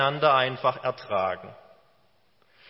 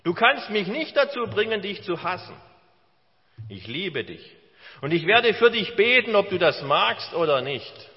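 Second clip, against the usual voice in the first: cheerful. Retold or imitated. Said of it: "Er sagte nur fröhlich".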